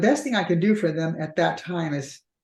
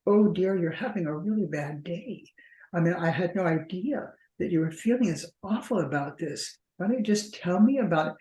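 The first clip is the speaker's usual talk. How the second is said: eerily calm; 3 dB quieter than usual. Retold or imitated. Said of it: "this kind of eerily quiet, robotic response".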